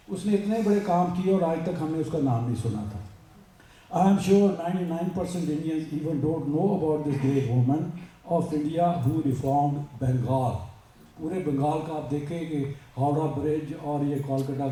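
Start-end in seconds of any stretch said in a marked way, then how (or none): 3.9-10.5 slow, measured English recitation; formal read-aloud. Acted. Speaker reading a great woman's story to listeners, slow formal read-aloud. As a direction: read it out word by word, slowly.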